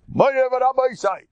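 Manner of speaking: high, loud formal salutation; quoting his own grand opening; grand address. Retold or imitated. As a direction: boom out the greeting to the crowd. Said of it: "I says".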